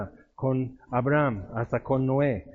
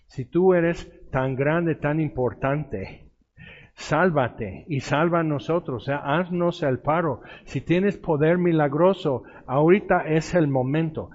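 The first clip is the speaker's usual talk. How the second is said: mocking taunt; 2 semitones higher than usual. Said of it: "blasfemando a Jesús y burlándose".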